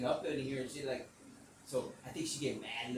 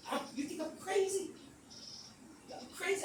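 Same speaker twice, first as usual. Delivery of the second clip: retold indignation. Retold argument with his dad.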